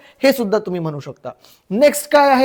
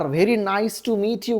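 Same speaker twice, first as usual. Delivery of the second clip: very slow, softer model phrase; slow teaching model; 2 semitones lower, 6 dB quieter, much slower than usual. Shown as a demonstration. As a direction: stretch out each word for learners. Teacher models the English sentence. (शिकवण्यासाठी हळू, सावकाश)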